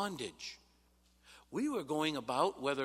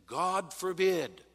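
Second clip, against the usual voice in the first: emphatic quote; 6 semitones higher, 7 dB louder, slower than usual. Acted. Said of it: "the King James translates it".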